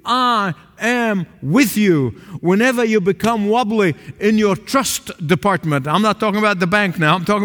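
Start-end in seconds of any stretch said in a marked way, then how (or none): 0.0-2.1 slow, measured "I am with you"; the Lord speaking. Acted. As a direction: speak it as God's gentle promise. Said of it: "hear the voice of the Lord saying to you".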